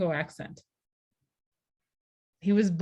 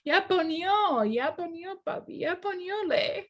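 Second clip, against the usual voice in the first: high teasing child imitation; mocking child talk; 11 semitones higher than usual. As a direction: parody the son's broken verb. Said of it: "makes fun of him".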